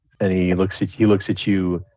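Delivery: ordinary delivery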